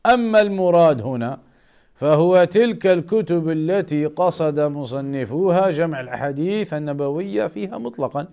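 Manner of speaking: quick, even recitation of a quoted definition; rapid Arabic text reading. Acted. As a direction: rattle off the Arabic list briskly. Reads Arabic definition aloud.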